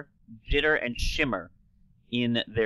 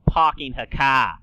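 Snooki; 5 dB louder than usual. Retold or imitated. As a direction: drop the R's in "parking her car", East Coast accent. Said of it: "that is when we get Snooki".

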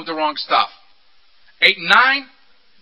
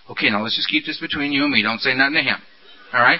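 low, hushed conspiratorial voice; whispering beast; 7 semitones lower than usual. Acted. Beast confides in Earl behind his sponsor's back, low murmur. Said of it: "beast whispering in my ear".

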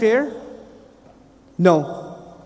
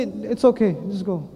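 gentle reassurance. Retold or imitated. Angels waving the believer through.

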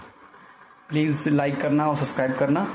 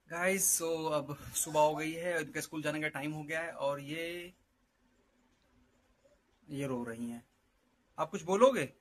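hushed morning vlog; 9 dB quieter than usual. Real, not acted.

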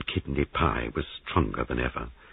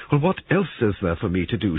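higher-pitched, mildly indignant question; irritable challenge; demanding; 5 semitones higher, 4 dB louder than usual. A narrator's reading. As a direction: demand an answer with a touch of indignation. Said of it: "she demanded".

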